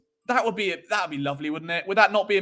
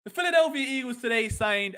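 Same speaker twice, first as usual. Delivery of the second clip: attempted American accent; put-on American accent, badly faked; 4 semitones higher than usual. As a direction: try an American newsreader voice. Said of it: "do an American accent".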